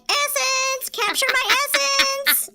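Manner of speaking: high, slow, breathy purr; perfume ad Skeksis. Retold or imitated. Mock perfume commercial in a Skeksis voice. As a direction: sell it like a sultry perfume ad. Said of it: "they were like".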